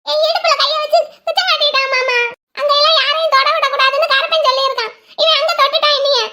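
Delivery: high-pitched, aggrieved report; complaining. Acted. Complains of being touched. (உயர்ந்த குரலில் முறையிடும் தொனி)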